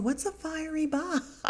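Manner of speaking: high puzzled question breaking into a laugh; confused and amused at once; baffled laugh. Retold or imitated. Giselle asking about the insult, high and laughing.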